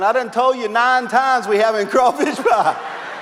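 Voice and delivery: annoyed Louisiana bayou accent.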